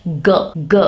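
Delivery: "G" said as a hard guh, as in go; hard G sound. Shown as a demonstration. Teacher demonstrating letter G's hard sound, hard guh. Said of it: "also has a hard sound".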